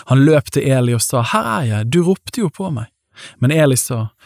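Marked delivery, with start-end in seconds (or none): 1.3-2.9 higher, lightly voiced boy; Samuel. A narrator's reading. Boy runs to Eli thinking he called, higher voice. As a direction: read the boy's reply pitched up, falling away.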